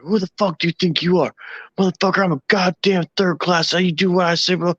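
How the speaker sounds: high-pitched imitation of outraged authority; mock tirade. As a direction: pull rank as the indignant third class. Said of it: "started tearing into everybody's ass".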